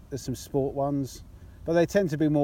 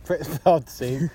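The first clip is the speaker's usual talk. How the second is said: said slowly; 4 dB louder, much slower than usual. Shown as a demonstration. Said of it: "'Cause I gotta say it slowly".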